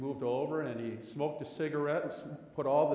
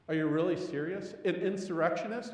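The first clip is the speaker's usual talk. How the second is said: incredulous; 4 semitones higher, 4 dB louder than usual. Acted. Disbelief at the label for Jesus.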